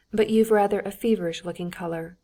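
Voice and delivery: feverish-looking leaned on a little, pointed; stress on feverish. A narrator's reading. Husband pointedly remarks on his wife's colour, stressing feverish-looking. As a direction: lightly press the word feverish-looking. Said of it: "laying stress on the word feverish".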